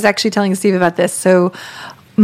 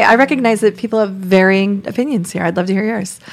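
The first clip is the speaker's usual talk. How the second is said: confident. Shown as a demonstration. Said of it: "it's a very confident thing".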